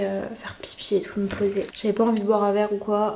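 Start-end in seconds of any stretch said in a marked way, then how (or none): 0.0-1.7 hushed aside under the breath; whispering. Real, not acted. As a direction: drop to a whisper.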